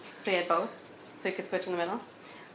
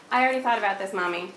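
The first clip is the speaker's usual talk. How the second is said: imitating her daughter; 5 dB louder than usual. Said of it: "she says to me".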